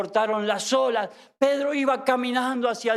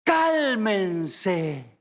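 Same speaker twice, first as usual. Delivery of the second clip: calm command; 4 semitones lower than usual. Acted. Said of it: "Jesús dijo enseguida".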